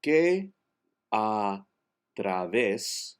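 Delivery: "través" stressed on "ves", the E unchanged; slow it into single words, weight on "ves" of "través"; word by word Catalan. Shown as a demonstration. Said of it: "the accent is the, on ves".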